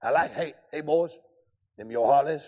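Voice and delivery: a hint of South Carolina Southern lingo; Southern drawl. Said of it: "in his South Carolina Southern lingo".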